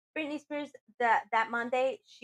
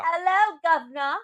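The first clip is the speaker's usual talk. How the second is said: echoed catchphrase; 7 semitones higher, 6 dB louder than usual. Acted. Echo catchphrase.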